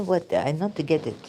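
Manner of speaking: ordinary talk, nothing marked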